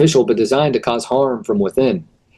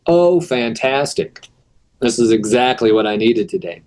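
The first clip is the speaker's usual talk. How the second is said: sarcastic. Acted. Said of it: "they're being ironic".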